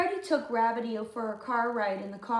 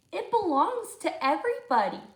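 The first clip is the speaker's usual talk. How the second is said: protesting Lindy; 6 semitones higher, 5 dB louder than usual. Acted.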